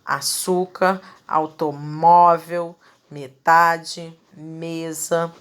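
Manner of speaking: slow word list, "Açúcar, automóvel, metade, mesa" each stressed second-last; penultimate syllable stress. Shown as a demonstration. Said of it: "pronunciada com mais força".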